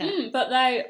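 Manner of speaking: talking while chewing crust; mouth full. Real, not acted. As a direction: speak through a mouthful of crust. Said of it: "sorry, I'm eating crust".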